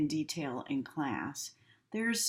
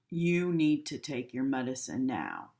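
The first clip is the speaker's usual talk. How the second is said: bossy order, a bit lower; authoritarian tone; 3 semitones lower than usual. Shown as a demonstration. Nurse ordering a patient, mildly authoritarian. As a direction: command it like a strict nurse. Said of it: "authoritative or authoritarian".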